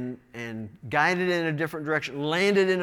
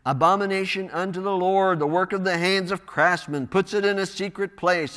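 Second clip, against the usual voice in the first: mildly raised reading voice; loud proclamation; 3 semitones higher, 4 dB louder than usual. Acted. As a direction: proclaim it to a whole assembly. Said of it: "with a loud voice".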